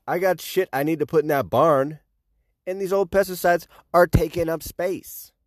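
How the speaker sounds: high, brash hick voice; dumb farmer. Retold or imitated. Mocking farmers who dump pesticides, high brash hick. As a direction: play a cocky rural farmer. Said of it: "farmers are like".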